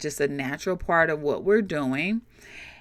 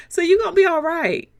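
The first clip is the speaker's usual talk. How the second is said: laughing; 10 semitones higher, 4 dB louder, faster than usual. Real, not acted. Laughing reassurance.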